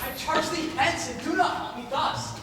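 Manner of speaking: high, loud, impatient brush-off; a man shaking off a clinging pursuer; angry dismissal. Acted. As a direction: drive her away, fed up. Demetrius shakes off pursuing Helena.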